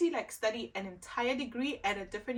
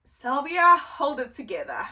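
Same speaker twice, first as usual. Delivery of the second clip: pep talk to self; 4 semitones higher, 9 dB louder than usual. Real, not acted. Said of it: "I'm already getting a bit emotional".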